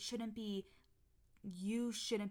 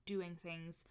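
mocking past self; 3 dB louder than usual. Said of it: "I used to be like".

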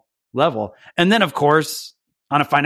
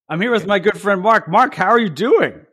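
higher, punchier talk show host introduction; hammed-up host intro; 7 semitones higher, 4 dB louder than usual. Host retakes the intro with mock showbiz energy. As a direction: sell the guest like a late night host. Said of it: "You said the mic swap".

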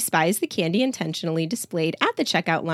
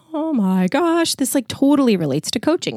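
excited realization; 7 semitones higher, 3 dB louder than usual. Retold or imitated. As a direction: savour the aha moment. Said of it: "I was like".

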